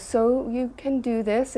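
lightly voiced teacher, slow rising pitch; guru's question. Guru checking the disciple understands, lightly imitated slow question. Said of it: "he goes".

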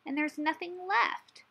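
high, worried storybook question; anxious. A narrator's reading. Hedgehog worrying to Badger about his nest, anxious. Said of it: "he asked anxiously".

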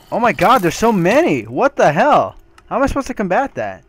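high panicked yelling; freaking out at the horde; scared horror game streamer. Real, not acted. Overwhelmed by enemies.

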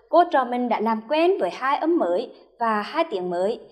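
usual speaking voice

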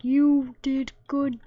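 mock NPC voice. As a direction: say it like the NPC would. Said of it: "that's what his voice is like".

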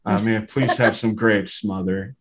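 well-spoken kid getting desperate, mildly played. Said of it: "sounds a little bit more desperate now".

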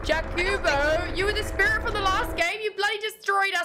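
high-pitched mock London-Aussie telling-off; London-Aussie accent. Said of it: "trying to do a London accent. As well as an Aussie".

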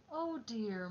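sighing. Acted. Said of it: "Mother sighed".

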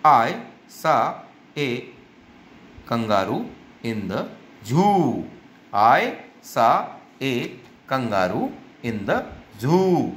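word-by-word reading with "zoo" held long; long vowel in zoo. Shown as a demonstration. Teacher reading aloud for children, spaced words, zoo drawn out. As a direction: pause between words and stretch zoo. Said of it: "जू के अंदर long sound है".

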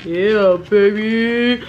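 loud happy whoop; excited cheer. Real, not acted. Cheering that she can taste.

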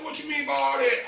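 high-pitched imitation of a puzzled officer; baffled cop.

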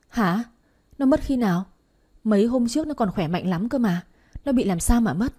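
neighbour's astonished outcry; shocked questioning. Acted. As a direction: react in acted alarm to bad news. Neighbour mistakes loss for a death.

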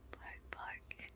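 breathy whispered puppy bark; tiny voiceless bark, barely there. Pretend. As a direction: whisper the woof, no voice at all. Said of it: "I like the whispering bark".

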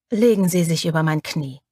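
a warm, lightly voiced male order; warmly. A narrator's reading. Dominik asks Rosa over his knee, warm and low. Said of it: "sagt er mit warmer Stimme".

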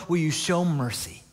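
plea at near-normal volume; pleading. Acted. Preacher voicing the mother asking God for mercy, pleading. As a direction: plead openly, letting the question fall. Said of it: "She's just pleading with God".

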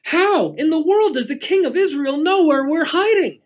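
loud, high, exasperated demand; angry king yelling at his men; furious king. Acted. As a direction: shout it out at the king's men in frustration. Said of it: "frustrated and so furious".

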